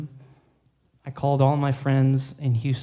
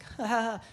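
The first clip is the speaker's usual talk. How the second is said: soft, higher-pitched mock laugh; imitated laughter; 6 semitones higher, 8 dB quieter than usual. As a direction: imitate a friend's laughing, lightly. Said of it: "Jimmy's laughing".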